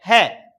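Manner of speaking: है as a short breathed "ha"; low, isolated h syllable on है; visarga sound. Shown as a demonstration. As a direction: demonstrate visarga as a crisp है. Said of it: "क्या उच्चारण करेंगे?".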